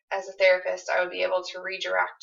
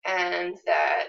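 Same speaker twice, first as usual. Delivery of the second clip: gentle reassurance as husband. Shown as a demonstration. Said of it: "if I was Kyle, I would say".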